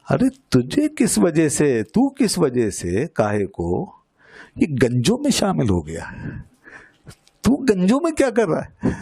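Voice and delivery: mild mock challenge, pitch jumping high at times; lightly voiced questioning parrot. Teacher voices the parrot questioning a bald dervish, mild mock challenge. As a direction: lightly act out an astonished questioner. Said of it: "کیا بولا؟".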